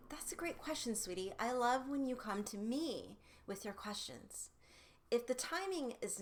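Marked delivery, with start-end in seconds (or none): 0.1-4.5 praising sweetly. Shown as a demonstration.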